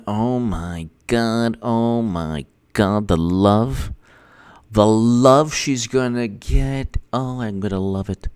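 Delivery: soft, slow savoring; hushed relish. Real, not acted. Gloating softly over Hillary coming back, hushed and slow. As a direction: let each word melt, quiet and slow.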